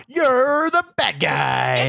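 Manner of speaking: drawn-out, slow movie-hero delivery; slow dramatic hero line. Retold or imitated. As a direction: stretch it out like a big action-movie moment.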